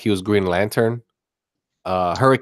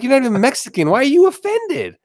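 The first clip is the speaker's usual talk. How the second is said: very high-pitched mock disbelief; incredulous challenge. Host challenges people offended for others, high incredulous voice. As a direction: pitch climbs higher as you question them.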